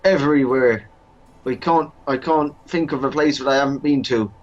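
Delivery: lightly voiced eager servant; a touch of a proud bumbler; Baldric voice. Baldric boasting to his master. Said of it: "my Baldric".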